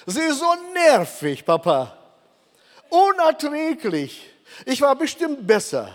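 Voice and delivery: high whiny complaint from the son; complaining son. Retold or imitated. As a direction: mimic the exasperated son on the phone. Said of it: "rief mich an und sagte".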